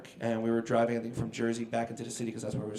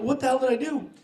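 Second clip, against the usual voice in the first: high, loud, half-laughing panic; retold panic; 11 semitones higher, 6 dB louder than usual. Singer in the cop car, panicked and half laughing. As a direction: squeal it out like a man who's lost the plot. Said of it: "So I'm freaking out".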